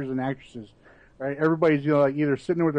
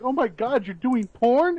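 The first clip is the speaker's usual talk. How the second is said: shocked parents; 7 semitones higher than usual. Retold or imitated. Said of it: "their friends and their parents are like".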